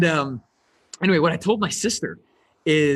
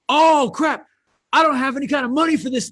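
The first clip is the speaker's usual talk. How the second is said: mock panic; 7 semitones higher than usual. Beginner panicking about money, in a mock high whine. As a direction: play the flustered newbie seeing the price.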